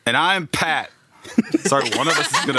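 hammed-up British accent, laughing; a clumsy put-on British accent; bad British accent. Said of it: "your horrible British accent".

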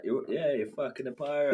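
laughing, loud and high; gleeful laughing reply. Retold or imitated. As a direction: laugh through the retold answer. Excited retold reply, laughing.

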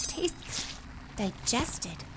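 whispered. Acted. Tasting the meat floor.

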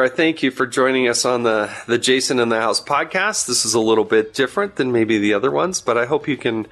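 upbeat host sign-off voice; podcast outro. Acted. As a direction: wrap up the show like a radio host. Podcast sign-off over music.

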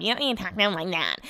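quick mocking parody of a scolding; singsong mock nagging; mocking imitation. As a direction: mimic a nagging partner, rattled off fast. Brett has made fun of me.

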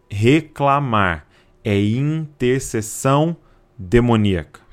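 slow, weighty repeat; each word laid down slowly. Shown as a demonstration. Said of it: "Vou repetir". (repetição lenta e pesada)

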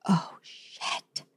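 unvoiced whispered oh shit; whispered curse. Woman seeing thick mud ahead whispering a curse. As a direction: breathe the curse under your breath. Facing thirty feet of mud.

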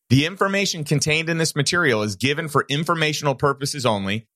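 brisk, even compliance read; disclaimer read. Acted. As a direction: read the fine print crisply.

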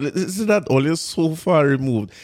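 ordinary talk, nothing marked

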